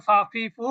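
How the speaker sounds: "ফা, ফি, ফু" with a Bengali ফ sound; letter demonstration. Shown as a demonstration. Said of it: "বাংলা ফার মতো". ("ফা, ফি, ফু" বাংলা ফার মতো উচ্চারণে)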